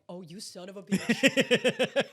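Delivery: drawn-out mock accusation; slow dawning realization. Host spots Ezra's little smirk, slow dawning realization. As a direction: let it dawn slowly, stretching the last word.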